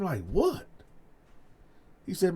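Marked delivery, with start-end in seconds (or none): 0.3-0.7 high, puzzled what; startled high question; confused what. Retold or imitated. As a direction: ask it like you misheard. Stunned reply to friend.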